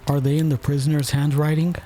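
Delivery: high-voiced juryman's question. A narrator's reading. Juryman asking about the letter, high voice. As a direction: pitch the query up high. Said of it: "asked another of the jurymen".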